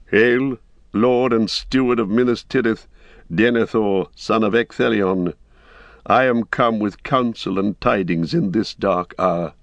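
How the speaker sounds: lightly voiced wizard, grave and formal; a grave old wizard hailing a lord; Gandalf, solemn. Gandalf greets the Steward.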